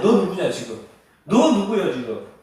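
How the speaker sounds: loud, pressing interrogation; urgent demand. Acted. Frightened sailors demanding Jonah's identity, urgent and loud.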